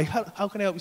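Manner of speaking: softly spoken, polite salesman; courteous, understated service voice. Retold or imitated. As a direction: offer help politely, soft and low. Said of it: "he's very polite and he goes".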